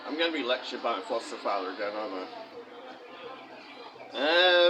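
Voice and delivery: talking with his mouth full. Real, not acted. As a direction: speak around a mouthful of food. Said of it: "talking with my mouth full".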